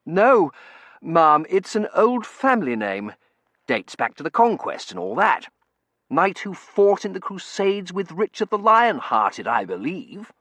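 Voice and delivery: put-on young man voice. Terence character voice.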